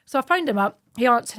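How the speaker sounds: usual speaking voice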